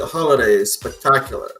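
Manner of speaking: ordinary talk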